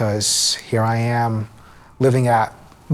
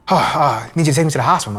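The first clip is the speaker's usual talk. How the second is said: higher, gasping plea for help; mock gasping panic; 4 semitones higher, 3 dB louder, faster than usual. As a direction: act out a breathless uncle begging for the hospital. Uncle in distress calls for help.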